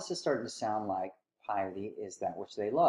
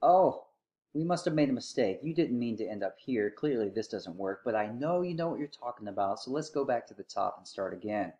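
sarcastic. Acted. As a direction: feign polite understanding with mild sarcasm. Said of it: "he sarcastically says".

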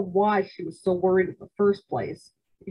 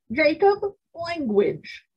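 put-on grandmother scolding father like a child; 9 semitones higher, slower than usual. A narrator's reading. Mock-stern scold. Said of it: "said my grandmother".

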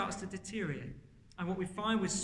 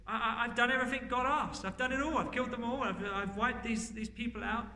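lightly voiced defensive Saul, pitched up; protesting Saul; 3 semitones higher than usual. Saul assuring Samuel he obeyed God, mock protesting. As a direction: insist on it in a higher, lightly acted voice.

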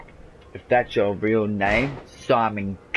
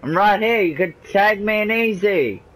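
excited; 7 semitones higher than usual. Real, not acted. Begging partner for tag.

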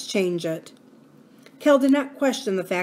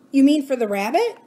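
Abra's voice; 6 semitones higher, 5 dB louder than usual. A narrator's reading. Abra questions Cal.

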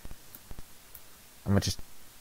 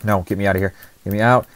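panicked shout; 5 dB louder, much faster than usual. Real, not acted. Trapped, panicking.

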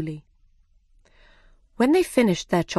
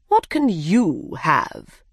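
dodo voice; slower than usual. Acted. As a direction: ask it slowly, like a big odd bird. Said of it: "he asked".

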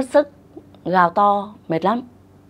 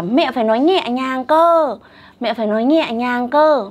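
put-on insistent child; 3 semitones higher than usual. Imitating a child's insistent demand.

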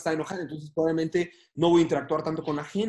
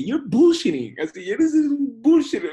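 mock scoffing; 9 semitones higher, 8 dB louder, slower than usual. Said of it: "yo así de que".

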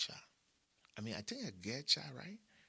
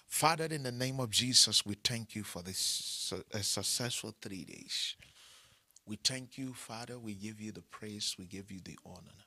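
prayer; 8 dB louder than usual. Real, not acted. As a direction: lead the congregation in prayer. Leads closing prayer.

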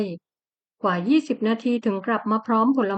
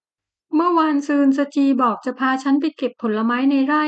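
pleading wife; 3 semitones higher than usual. Acted. Wife asking husband.

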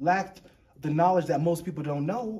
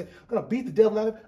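Bob Ross quote; 3 semitones higher, 5 dB louder, faster than usual. Retold or imitated. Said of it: "That's what Bob Ross would say".

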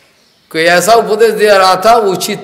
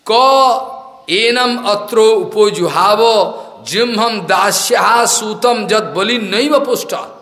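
slow, drawn-out scriptural quotation; measured recital of scripture; Sanskrit verse recitation; 3 semitones higher, slower than usual. Real, not acted. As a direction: recite it syllable by syllable, slowly.

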